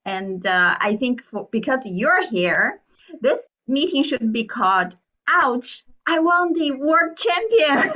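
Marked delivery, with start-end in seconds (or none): 5.3-7.9 laughing title. Acted. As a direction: announce it with a laugh breaking in. Jokingly names the meeting after a speech title.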